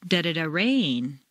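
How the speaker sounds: light da-da-da then stressed rain; "rain" stressed after throwaway da-da-da. Shown as a demonstration. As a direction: hum the rest, land on rain.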